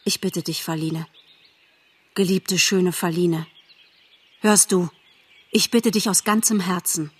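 lightly voiced lovesick stag, hushed and begging; softly pleading young Bambi. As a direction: beg her gently from the heart.

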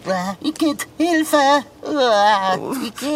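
loud revolted outcry; yelled, grossed-out protest; bellowing in disgust. Acted. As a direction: cry out in disgust and panic. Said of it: "Wenn du so brüllst".

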